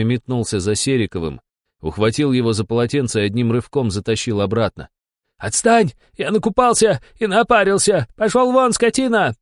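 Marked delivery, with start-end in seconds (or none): 5.4-9.3 high, loud yell of fury; desperate yelling. A narrator's reading. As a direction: yell while clinging to the frame. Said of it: "вопил Сериков". (высокий громкий отчаянный вопль)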